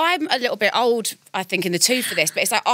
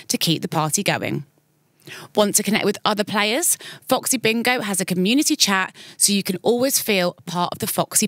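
sponsor ad read; 3 semitones lower than usual. Acted. Reads the sponsor message.

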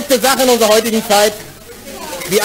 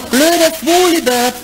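put-on higher, slow childish jeer; sing-song taunt; 5 semitones higher than usual. Schoolkids jeering up at the neighbour's window. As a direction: tease him like a schoolkid.

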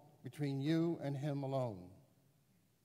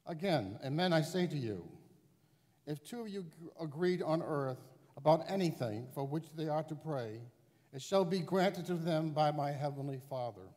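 higher reading with church reverb; cathedral echo; 7 semitones higher than usual. Real, not acted. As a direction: read into a big echoing hall. Gospel proclaimed in large church.

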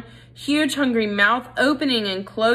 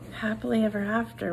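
softer, hushed; whispered; 6 dB quieter than usual. Acted. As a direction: say it barely audible, to himself. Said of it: "whispered Despereaux".

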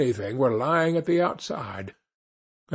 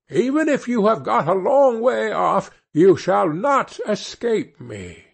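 angry witch threat; 6 semitones higher than usual. A narrator's reading. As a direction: threaten them as you chase. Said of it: "cried she".

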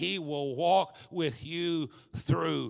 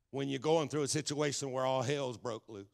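softer, careful phrasing of a rough expression; toned-down, quieter delivery; saying it nicely; 5 dB quieter than usual. Real, not acted. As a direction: ease gently through the near-curse. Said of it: "I'll say it nicely".

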